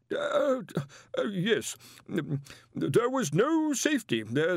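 put-on high, anxious young wizard pleading; nervous protest. A narrator's reading. Young wizard protests to the Arch-Chancellor, high and anxious. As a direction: protest timidly to the boss.

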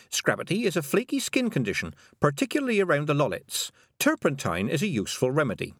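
high-pitched, declaimed book reading; lightly voiced girl reading out; reading aloud. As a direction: read it out like an incantation. Tiffany reads book aloud.

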